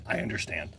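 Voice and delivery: low, soft, reluctant concession; grudging agreement. Retold or imitated. Wife conceding on buying a generator, grudging and quiet. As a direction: give in grudgingly, under your voice. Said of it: "she grudgingly said".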